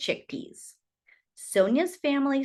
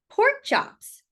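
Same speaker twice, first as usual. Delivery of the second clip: delighted; 12 semitones higher, 4 dB louder than usual. Acted. Savouring the mother's cooking.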